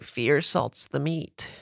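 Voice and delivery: slow, soft eerie banshee whisper. Pretend. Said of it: "pretty good banshee voice".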